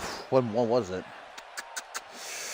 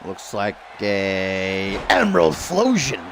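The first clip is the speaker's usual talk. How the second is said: mock Italian accent; 7 semitones lower, much slower than usual. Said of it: "I turned Italian there for a second".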